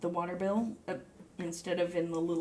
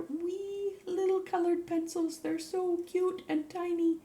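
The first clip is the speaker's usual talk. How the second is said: cutesy high voice; 11 semitones higher than usual. Real, not acted. Showing viewers tiny colored pencils, cooing high and slow. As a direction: gush like holding a kitten.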